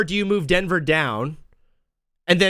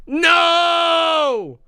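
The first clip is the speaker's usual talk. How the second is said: sharp high shouted "No!"; mock censor shout; 13 semitones higher, 4 dB louder than usual. Streamer voicing the censors to chat, high shout. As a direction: bark it high like a censor slamming the door. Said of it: "they're like".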